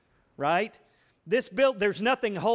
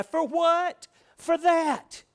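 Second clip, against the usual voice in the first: raised, high-pitched incredulous preaching; indignant outburst; 11 semitones higher, 5 dB louder, much slower than usual. Real, not acted. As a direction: cry it out, loud and high, in disbelief. Preacher's outraged rhetorical question and answer.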